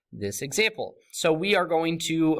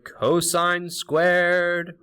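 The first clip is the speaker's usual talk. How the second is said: higher, slow, stretched-out sing-song; 6 semitones higher, 3 dB louder, much slower than usual. Real, not acted. Teacher giving students the identity, sing-song. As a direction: chant it slowly on a raised note. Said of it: "singing in a sing-song voice".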